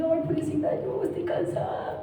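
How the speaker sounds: mock-tearful poor-me whine, high and soft; victimización fingida. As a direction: whimper in exaggerated self-pity, breaking into laughter. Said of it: "Y era esa victimización de". (lloriqueo agudo de víctima, en broma)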